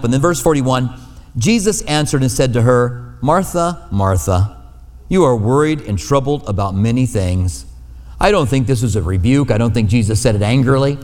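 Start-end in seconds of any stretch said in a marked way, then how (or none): 3.2-7.7 tender. Retold or imitated. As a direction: say her name twice like a caring friend. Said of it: "These are tender words".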